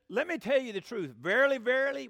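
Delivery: loud, punched declaration; very emphatic. Retold or imitated. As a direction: press each phrase home with force. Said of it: "that's very emphatic".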